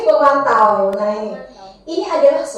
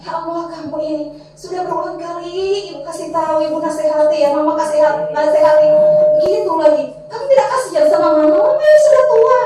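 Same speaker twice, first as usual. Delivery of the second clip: guilt-tripping mother. Shown as a demonstration. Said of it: "suaranya tenang, tidak, tidak tinggi".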